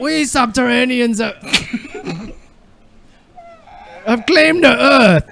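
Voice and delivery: hammed-up Klingon-ish; odd accent. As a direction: declare like an invader. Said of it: "What is that, Klingon?".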